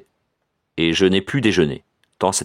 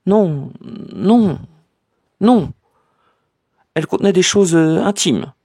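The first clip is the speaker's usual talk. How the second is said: flustered cousin; 11 semitones higher than usual. A narrator's reading. Cousin refuses to show the letter, flustered and higher. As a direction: stumble through the excuse.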